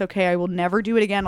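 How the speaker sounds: rapid, desperate promise; fast pleading. Retold or imitated. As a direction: rush the vow out. Bargaining with the Lord.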